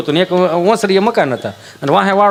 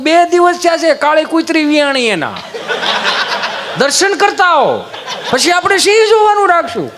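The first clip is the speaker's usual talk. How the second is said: higher, laughing mock-serious offer; a hammed-up holy offer; teasing through laughter; 9 semitones higher than usual. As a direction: keep a straight face but crack up. Teasing guests about the dog.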